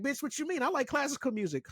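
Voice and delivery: hammed-up high snobby voice; mock snob voice. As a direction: sneer like a classical-music snob. Mocking a snobby classical-music fan.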